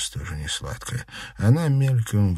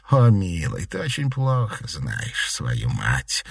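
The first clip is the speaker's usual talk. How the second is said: sighing; slower than usual. Acted. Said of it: "вздохнула Шадурская".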